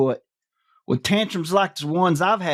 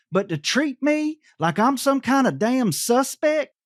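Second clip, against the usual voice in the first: high-pitched indignant question; offended indignation; 9 semitones higher than usual. Acted. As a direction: protest the insult with pitch climbing high. Offended at being treated as suspect.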